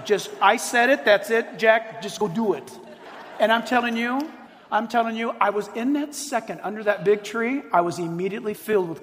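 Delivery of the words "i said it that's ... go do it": God's blunt voice. Retold or imitated. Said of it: "That's how he talks to me".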